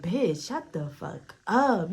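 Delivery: drawn-out, exasperated shut-up; slow, imitated telling-off; fed-up retort. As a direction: stretch it out, fed up. Retelling homie's fed-up order.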